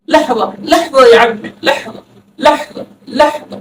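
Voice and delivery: لحظہ with a breathy throat ḥ; Arabic ḥ demo. Shown as a demonstration. Teacher showing the throaty sound of لحظہ. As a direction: push the ha sound through لحظہ. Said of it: "ہا کی آواز نکالیں".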